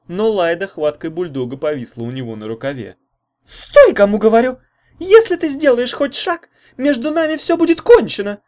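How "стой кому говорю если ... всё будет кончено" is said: very high, loud commanding shout; shouted ultimatum. A narrator's reading. Girlfriend screams at the leaving boy, very high and loud. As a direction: yell after him to stop. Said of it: "крикнула она".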